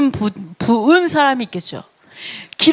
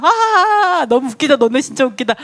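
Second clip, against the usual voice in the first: mocking laughter; 2 semitones higher than usual. Preacher acting God laughing at the rebels, mocking laughter. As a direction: laugh it up at their expense. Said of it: "그냥 웃기면 막 우셨어요".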